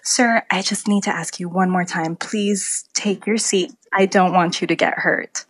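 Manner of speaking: lightly acted flight attendant, patient and firm; gently firm babysitter tone, slowing on the request; a hint of babysitter talking to a grown passenger; talking to adults like children. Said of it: "in that same tone of voice".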